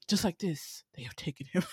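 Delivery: lightly voiced dopey kid, barely off her own voice; a hint of a silly mock voice, half-hearted; stupid voice. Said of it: "follows him in this stupid voice".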